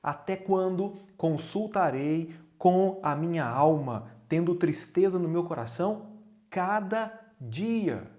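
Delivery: lament. Retold or imitated. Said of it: "Davi continua dizendo".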